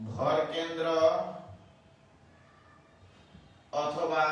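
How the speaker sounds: slow, measured dictating voice; slow dictation. Acted. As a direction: read each word out for students to write. Teacher dictates problem to class.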